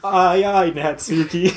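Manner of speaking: eager shout. Acted. Answering a rallying call.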